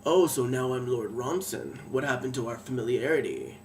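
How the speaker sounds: a lightly voiced lord, cool and composed again; hint of a wounded aristocrat regaining his cool; composed villain. Lord Ronson, scowl swallowed, answers her coolly. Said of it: "and he was like".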